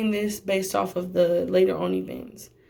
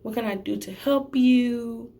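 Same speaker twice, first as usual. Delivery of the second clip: polite apology; 2 semitones higher than usual. Retold or imitated. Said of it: "I said".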